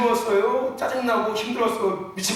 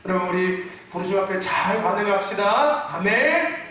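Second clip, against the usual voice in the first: mild, subdued exhortation with a questioning amen; sleep-inducing gentle preaching; 2 semitones lower than usual. Shown as a demonstration. Preacher demonstrates tame preaching that would put listeners to sleep, gentle. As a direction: preach it tamely, like a lullaby. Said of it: "이렇게 하면 다 잘 거예요".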